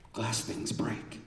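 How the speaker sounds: slow, hushed mantra, pitched a little up; muttered. Acted. On the verge of saying the family mantra, muttered. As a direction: say it under your breath, drawn out. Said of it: "muttering the phrase".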